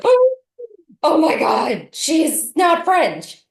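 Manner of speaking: high, loud mock-shocked outburst; astonished exclamation. Auditioners finding out she isn't French, astonished. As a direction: exclaim it like a scandalized onlooker, drawn out at the end.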